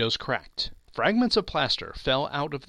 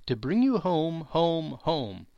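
higher-pitched, lightly voiced delighted little girl; a touch of childlike delight, pitched up; joyful child; 3 semitones higher, slower than usual. A narrator's reading. Little sister come to fetch her brother home, mildly delighted. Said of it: "clapping her tiny hands".

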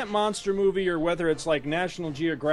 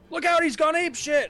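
yelling at the screen; 12 semitones higher than usual. Retold or imitated. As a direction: bellow a warning at the screen. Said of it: "I like to yell at the screen".

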